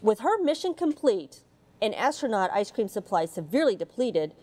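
put-on gentle read-aloud storytelling for children; mild storybook narration voice. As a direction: read it like a bedtime picture book. Reads picture book aloud.

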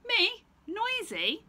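very high, loud squeal of outrage; indignant monkey. Acted. Monkey offended by Stephen, very high squeal. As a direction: shriek in disbelief.

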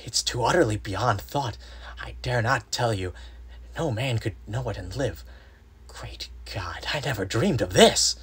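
aghast, breathy half-whisper rising to a cry; horrified disbelief. Acted. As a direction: gasp it out in awe and horror. Horrified friend reporting from the tomb.

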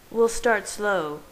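slow, mildly reassuring promise; slow down and gently reassure; promising. A narrator's reading. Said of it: "I promised".

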